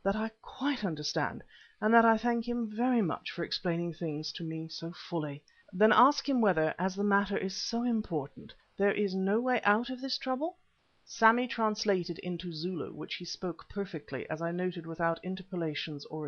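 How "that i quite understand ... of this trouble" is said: lightly voiced gentleman, a little raised in places; polite, formal request relayed through an interpreter; courteous Stephen. Stephen's polite reply in story.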